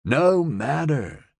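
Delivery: slow, strained through clenched teeth; strained effort through gritted teeth. A narrator's reading. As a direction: grit it out, slowly. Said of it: "through gritted teeth".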